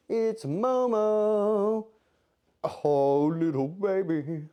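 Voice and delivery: slow high cooing. Real, not acted. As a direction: stretch the words out tenderly. Cooing at the cat.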